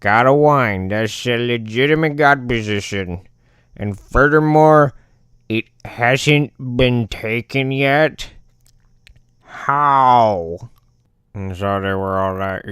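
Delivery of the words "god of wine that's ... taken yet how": building from puzzled to loud, higher disbelief; mind blown. Acted. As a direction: work it out aloud, increasingly astonished. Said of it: "completely mind blown".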